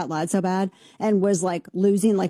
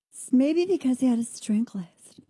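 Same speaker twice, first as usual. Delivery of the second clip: whisper; 4 semitones higher than usual. Real, not acted. Conspiratorial aside.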